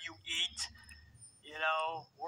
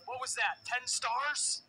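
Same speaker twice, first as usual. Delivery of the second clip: mocking ten stars; 7 semitones higher, 3 dB louder, slower than usual. Strowman mocking after backflip.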